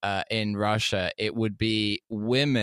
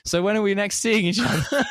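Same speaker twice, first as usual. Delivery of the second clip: mock date; 9 semitones higher than usual. Date's text voiced in story.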